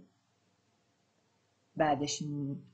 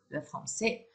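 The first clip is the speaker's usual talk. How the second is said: whispered; 8 dB quieter, slower than usual. Shown as a demonstration. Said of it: "teacher models sentence".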